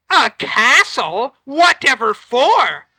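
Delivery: loud, slow, annoyed fish voice; a put-upon magic fish; irritated fish scolding the fisherman; grumpy magic fish. Acted. Fish questions the wish.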